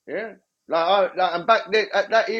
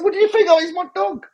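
mock sarcastic; 11 semitones higher than usual. Mocking the interviewer afterwards.

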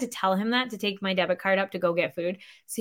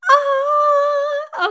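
surprised oh; 7 dB louder than usual. Retold or imitated. Realizing other parents struggle too.

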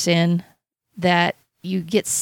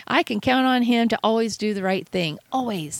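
proud God; 3 semitones higher than usual. Retold or imitated. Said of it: "God pointing, saying".

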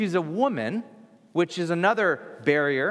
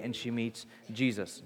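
hushed reveal; 5 semitones lower, 9 dB quieter than usual. Acted. Repeated climax, dropped voice.

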